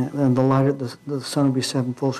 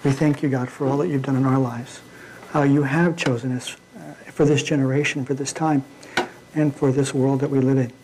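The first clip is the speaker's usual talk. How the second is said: prayer. Acted. Closing prayer.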